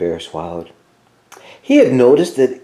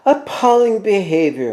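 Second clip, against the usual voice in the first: Mouse voice; 8 semitones higher than usual. A narrator's reading. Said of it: "Mouse started to say".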